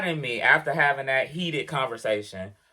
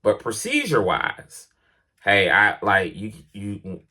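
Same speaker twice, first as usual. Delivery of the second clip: lower, measured boss lecturing a driver; mock boss voice; 7 semitones lower than usual. Driver imitating the boss giving a verbal warning, lower mock voice. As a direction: play the manager delivering a verbal warning, lower and dismissive. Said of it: "had he said".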